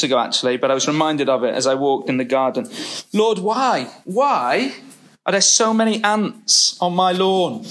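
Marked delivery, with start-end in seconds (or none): 3.1-7.6 imitating his complaint. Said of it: "That was my question for God".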